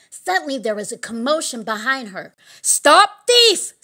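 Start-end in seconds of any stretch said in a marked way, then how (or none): 2.6-3.7 high, loud alarm call; shouting. A narrator's reading. Someone raising the alarm behind her, high shout. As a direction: shout after a fleeing thief. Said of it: "someone shouted".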